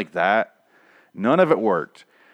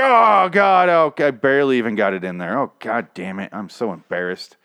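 hammed-up embarrassment, fading; mock embarrassed lover; 5 dB louder than usual. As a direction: blurt then sink into shame. Joke voicing premature ejaculation.

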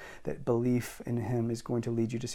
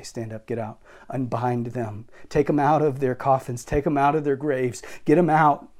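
building command; 5 dB louder than usual. Pretend. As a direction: build from calm to a ringing order. Imagined commands in hospitals.

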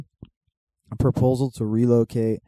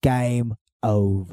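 slow announcer; much slower than usual. Acted. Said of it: "repeated line".

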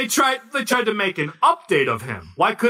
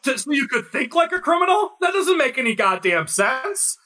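shouting, pitched up; loud sharp voice; 4 semitones higher than usual. Real, not acted. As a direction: yell it in disbelief. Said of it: "Why are you yelling at".

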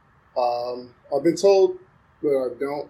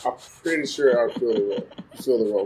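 laughing; 4 semitones lower, faster than usual. Real, not acted. Joking he'd be an accent interpreter.

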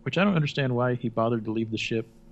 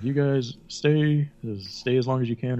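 slow, louder call, easing off; mock captain's call; 3 semitones higher, 4 dB louder than usual. Retelling the captain leaving his crew, drawn-out call. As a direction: draw out the order, then ease back.

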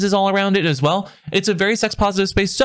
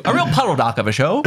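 mock review. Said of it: "that's a pretty good review".

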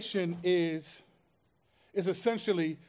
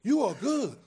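reassuring; 6 semitones higher, 5 dB louder than usual. Retold or imitated. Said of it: "He's saying".

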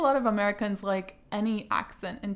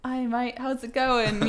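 higher-pitched, jokey imitation of a British or Australian accent; mock British-Australian accent; 4 semitones higher, slower than usual. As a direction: greet like an American badly faking a British or Australian accent. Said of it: "imitate British accents and Australian accents".

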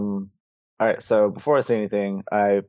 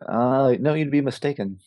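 mildly sarcastic denial; mock-innocent denial, lightly played; 2 semitones higher than usual. Player wryly denies the name to the crime boss, mildly sarcastic. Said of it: "I'm being sarcastic, asshole".

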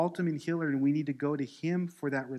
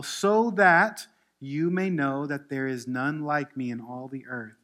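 loud, forceful pulpit reading; scripture reading; 3 semitones higher, 6 dB louder than usual. Acted. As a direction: proclaim God's command, leaning hard on key phrases. Reads scripture to congregation.

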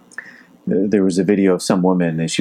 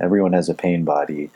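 put-on German accent. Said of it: "This is with his German accent".

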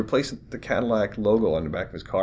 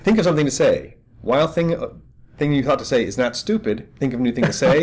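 higher, louder panicked inner voice; frantic inner voice; 5 semitones higher, 7 dB louder than usual. Retold or imitated. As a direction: race through it like a stuck program. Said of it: "loop that says".

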